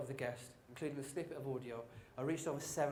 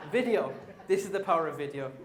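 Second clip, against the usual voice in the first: laughing excitement; 3 semitones higher, 11 dB louder than usual. Real, not acted. Laughing, excited after shirt joke.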